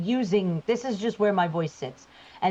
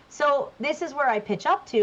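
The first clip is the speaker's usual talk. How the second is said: pitched higher, bright service voice; customer service voice; 6 semitones higher than usual. Shown as a demonstration. Voice actor showing her higher customer service voice. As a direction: lift the voice up for customers. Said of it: "this is my customer service voice".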